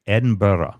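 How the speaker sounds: "Edinburgh" with the ending reduced to "burra"; corrected pronunciation. Shown as a demonstration. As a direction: say "Edinburgh" as locals do, "Edin-burra". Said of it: "Now I can say it the correct way".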